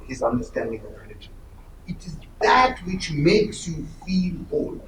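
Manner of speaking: hushed, confiding whisper. Real, not acted. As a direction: lean in and breathe it. An intimate, confiding gloss on Gandhi.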